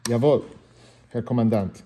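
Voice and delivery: loud barked German soldier reply; fake German. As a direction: snap it like a Hogan's Heroes guard. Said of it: "Fake German words".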